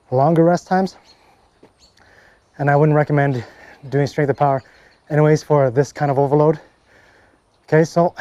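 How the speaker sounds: winded, catching breath between words. Real, not acted. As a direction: talk while still panting after the set. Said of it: "let me just catch my, catch my breath".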